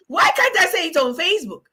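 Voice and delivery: high-pitched giggly talk through laughter; laughing. Real, not acted. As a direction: laugh while you ask it. Laughs at her own joke.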